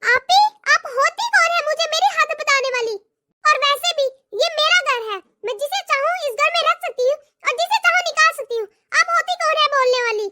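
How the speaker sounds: a lightly voiced, haughty young daughter-in-law. Daughter-in-law telling off her sister-in-law, haughty. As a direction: put her in her place.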